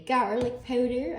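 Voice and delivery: GARLIC POWDER in a stray put-on accent; unplanned accent, words over-pronounced; accidental odd accent. Real, not acted. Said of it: "I don't know why that accent came out".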